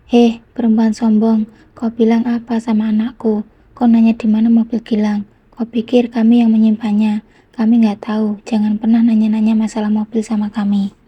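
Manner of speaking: loud, furious rebuke; angry scolding. Acted. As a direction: tell her off hard. Angry mother scolding on phone. (ibu marah membentak)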